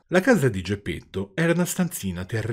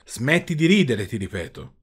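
a hint of a menacing shout, falling off at the end; threatening yell; 2 semitones higher, 4 dB louder than usual. Geppetto threatens the mocking puppet mouth, mildly shouted. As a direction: warn the laughing mouth sternly. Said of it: "urlò con voce minacciosa".

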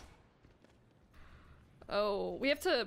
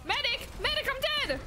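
man down shout; 12 semitones higher than usual. Real, not acted. Calling for heals in game.

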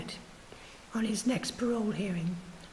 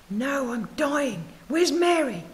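put-on dying old man; 4 semitones higher, 6 dB louder, slower than usual. Dying old man asks for wife.

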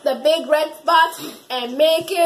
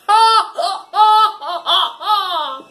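evil laugh; 2 semitones higher, 3 dB louder, slower than usual. Pretend. Kid villain laughs at Pluto with a hammed-up evil cackle. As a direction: laugh like a triumphant cartoon villain.

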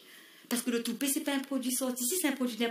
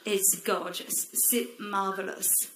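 affected swooning; 3 semitones lower, 4 dB quieter, much slower than usual. Acted. Pretentious returnee speaks English.

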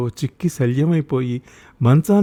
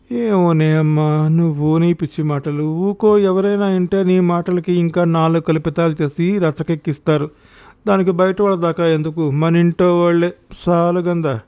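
weary reproof; 4 semitones higher than usual. Acted. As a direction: hush her with a long-suffering air. Mother-in-law reproves daughter-in-law. (విసుగ్గా వారిస్తూ)

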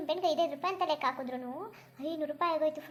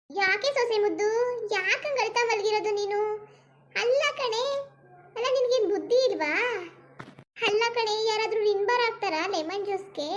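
put-on higher, louder nagging old mother-in-law; scolding mother-in-law; 4 semitones higher, 4 dB louder than usual. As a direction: berate the silly daughter-in-law. Mother-in-law coaxes then scolds. (ಬೈಯುವ ಅತ್ತೆಯ ಧ್ವನಿ)

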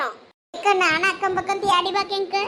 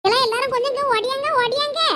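hurried, raised-pitch call for help; urgent calling out; 3 semitones higher than usual. Acted. Worried mother summons the others to come running, urgent calling out. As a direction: call everyone over urgently. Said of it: "என்னத்துக்கு இந்த லட்சி இப்படி கத்திட்டு".

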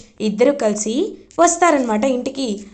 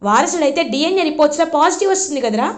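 angry retort; 3 semitones higher than usual. Acted. Mother argues back with son.

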